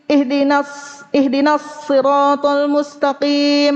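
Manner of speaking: "ihdinas" recited with a short h that doesn't flow; no rokhwah. Shown as a demonstration. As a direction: hurry past the h in "ihdinas". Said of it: "Mana rokhwahnya?". ("ihdinas" tanpa rokhwah, ha tidak mengalir)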